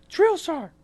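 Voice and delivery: high, loud mock military shout; recruit calling out. Recruit answering the yelling drill sergeant, shouting. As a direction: sound off like a recruit.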